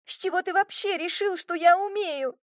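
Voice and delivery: high, outraged shout; girl yelling down at the man who threw her; indignant yell. A narrator's reading. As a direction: yell it in disbelief. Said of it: "возмущённо заорала я".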